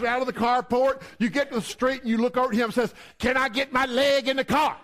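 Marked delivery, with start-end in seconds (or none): 3.2-4.8 higher mock-exasperated protest; indignant wife. Wife to husband pulling away, acted exasperation. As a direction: act out a wife yelping at a hasty driver.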